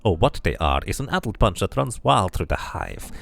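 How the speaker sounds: bitter woman explaining the gang; bitter scarred woman. Acted. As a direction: spit out the name of her attackers. Woman explains the Chaos men.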